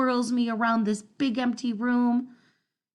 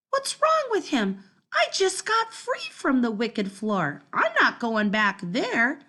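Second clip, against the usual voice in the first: indignant; 3 semitones higher than usual. Acted. Dog refuses indignantly.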